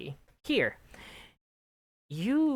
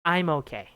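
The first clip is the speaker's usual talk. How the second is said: "I'm okay" with a falling end; down intonation; 4 dB louder than usual. Shown as a demonstration. Teacher demonstrating an answer, "I'm okay" with falling tune. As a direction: drop the pitch through "okay" in "I'm okay". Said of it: "It's a down intonation".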